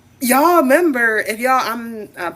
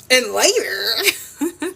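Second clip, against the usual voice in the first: laughing; much slower than usual. Real, not acted. Laughing teasing.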